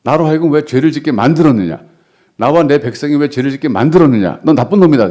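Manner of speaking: a preacher voicing an accusing king, building to a loud end; king's rebuke. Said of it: "아비멜렉이 책망하고 있어요". (속은 왕이 아브라함을 나무라는 큰 꾸짖음)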